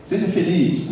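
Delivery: firm order. Shown as a demonstration. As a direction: make it a command, not a wish. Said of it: "isso é uma ordem que eu estou dando".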